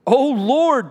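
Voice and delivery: earnest plea in prayer; pleading. Acted. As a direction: plead out to the Lord. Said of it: "they pleaded".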